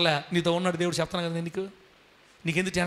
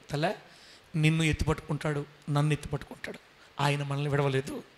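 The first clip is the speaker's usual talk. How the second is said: tender assurance; 4 semitones lower, 4 dB quieter than usual. Real, not acted. Tender blessing to congregation.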